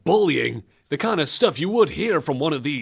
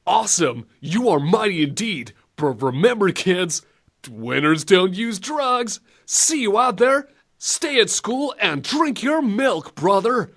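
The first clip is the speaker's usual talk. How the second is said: cheesy PSA hero; 3 semitones higher than usual. Retold or imitated. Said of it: "Simon Belmont to ... look at the camera, big cheesy grin".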